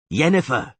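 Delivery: loud calling shout. Acted. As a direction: call her name hard. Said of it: "he shouted".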